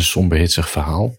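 "somber" and "hitsig" each punched a little; stress on SOMBER, HITSIG. Shown as a demonstration. Host announcing a story to listeners, stress on "somber" and "hitsig". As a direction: lean on both "somber" and "hitsig". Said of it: "met de nadruk op somber en ook met de nadruk op hitsig".

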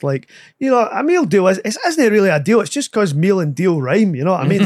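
blethering uncle character; Frank. Shown as a demonstration. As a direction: riff like a chatty uncle explaining the obvious. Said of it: "I just let Frank talk".

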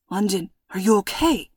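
raspy voice. Acted. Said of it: "voice raspy".

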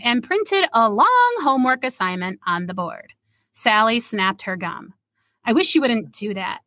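reading a story aloud. A narrator's reading. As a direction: read it like your own short story. Reads her story aloud.

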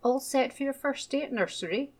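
bright, loud and high welcome; beaming teacher greets a shy new boy. A narrator's reading. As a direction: greet him with a big beaming smile. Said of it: "she beamed".

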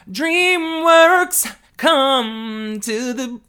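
high loud call. Real, not acted. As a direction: shout it to DreamWorks. Calling out to studio.

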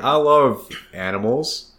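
slow, lightly voiced big goofy character; Hagrid. Speaker imitates Hagrid to a friend, lightly goofy character voice. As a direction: draw it out like a simple gentle giant. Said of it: "he's just like".

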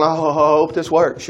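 hammed-up nervous quaver; imitating a shaky, unsure hoper; mock shaking. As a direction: pretend to tremble with doubt. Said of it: "David's not shaking going".

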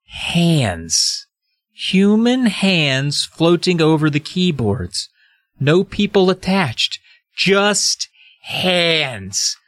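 slow, suspenseful reveal; dramatic story narration. A narrator's reading. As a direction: draw out each phrase for horror. Reads the book's reveal.

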